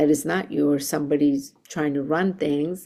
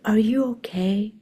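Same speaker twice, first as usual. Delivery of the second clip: hushed, breathy check-in; concerned whisper; 4 semitones higher than usual. Retold or imitated. Reverend asking the frustrated supervisor, whispered.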